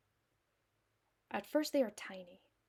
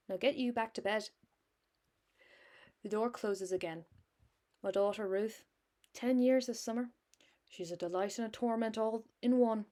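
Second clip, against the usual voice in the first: put-on hammy Irish accent. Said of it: "I know this accent is hammy as hell".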